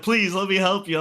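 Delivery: high-pitched imitation of a pleading kid; mock desperate offer of help. Kid begging to help the player he shot, pleading.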